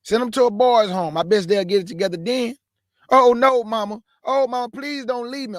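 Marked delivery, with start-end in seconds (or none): 3.1-5.6 mock pleading child crying to mama; begging kid. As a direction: whine like a scared kid begging.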